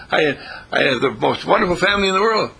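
bold declaration. Pretend. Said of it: "He says".

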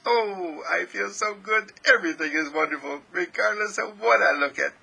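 a touch of gushing delight; elated self-talk. Acted. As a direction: mildly gush to yourself, pitched a little high. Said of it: "And you say".

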